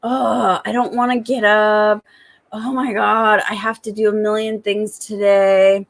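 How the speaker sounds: mock whiny complaint; reluctant waking. Mom waking to a million chores, mock reluctance. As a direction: lightly act out dreading the day. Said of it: "that's how it normally starts".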